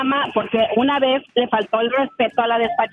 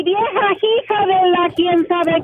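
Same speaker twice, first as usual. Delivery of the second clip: slower, higher, snarling insult from a rude man; mock angry yell; 5 semitones higher, slower than usual. Rude trucker insulting her over the trailer, mock angry yell. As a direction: bark it out like the vulgar trucker.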